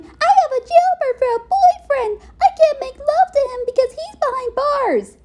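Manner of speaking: put-on high, crying drunk wail; imitating a drunk girlfriend wailing; drunken whine. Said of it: "get drunk and whine".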